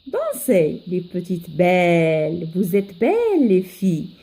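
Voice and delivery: verse modelled line by line; poem recitation for learners. Acted. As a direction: teach a poem by careful recitation. Teacher recites second stanza.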